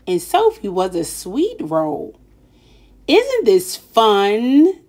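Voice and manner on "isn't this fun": slow, drawn-out gloating; gleeful boy. Acted. Wendell gloating to silent Sophie, slow mild glee. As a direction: savour it, pleased with himself.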